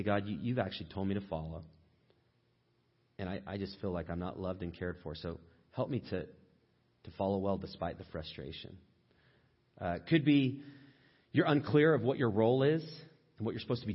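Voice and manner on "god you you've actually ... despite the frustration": low, soft, subdued plea; earnest model prayer. Shown as a demonstration. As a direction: pray it quietly, admitting the frustration. Models a frustrated prayer to God.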